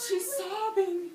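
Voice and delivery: gasp, then high, loud and drawn-out; emphatic exclamation. Real, not acted. Teacher seizing on the child's answer, emphatic exclamation. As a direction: cry out the answer with big emphasis.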